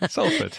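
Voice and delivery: "Salford" as SOL-fud, pitched high. Shown as a demonstration. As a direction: model "Salford" without any R. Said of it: "Do I say the R?".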